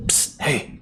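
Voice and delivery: whisper. Acted. Sneaking up to call friend.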